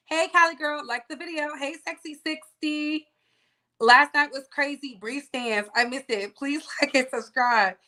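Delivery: usual speaking voice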